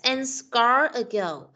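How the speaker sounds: slow, careful model reading. Shown as a demonstration. Teacher modelling the phrase slowly for a pupil. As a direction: spell it out slowly for the child. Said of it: "teacher models the phrase".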